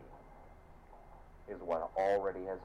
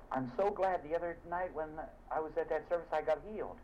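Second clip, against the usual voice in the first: grateful churchgoer; 10 semitones higher than usual. Retold or imitated. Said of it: "people come up and they say".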